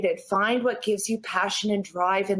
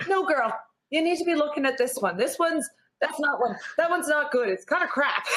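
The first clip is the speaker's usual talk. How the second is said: friendly stranger lady; 5 semitones higher than usual. Retold or imitated. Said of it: "a lady just stopped me. She goes".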